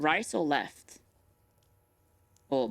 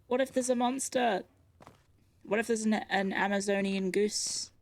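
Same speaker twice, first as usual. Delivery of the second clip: scared; 6 semitones higher than usual. Pretend. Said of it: "I'm scared".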